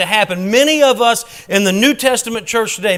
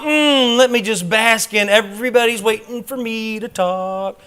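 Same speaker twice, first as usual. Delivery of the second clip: mock dramatic pause; 3 semitones higher than usual. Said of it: "I'm saying it's not".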